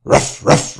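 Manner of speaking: half-whispered "Ruff, ruff" puppy barks; dog bark. Acted. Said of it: "barks the dog".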